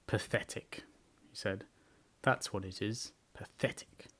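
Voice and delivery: soft, low mournful mutter; gloomy donkey. A narrator's reading. Eeyore at the stream, soft and gloomy. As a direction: sigh it out in despair.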